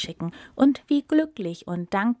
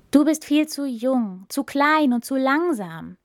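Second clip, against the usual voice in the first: scornful crowd; 5 semitones higher, 4 dB louder than usual. Acted. Animals dismiss the tortoise.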